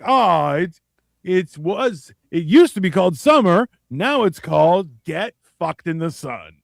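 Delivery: sarcastic weather-host delivery; mock presenter voice. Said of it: "You just be like".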